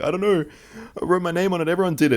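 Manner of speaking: high-pitched imitation of a bawling kid; mock crying. Kid confessing to the cleaner who pinned him, high mock-crying. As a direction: retell it as a wailing, pleading child. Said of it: "I burst out crying".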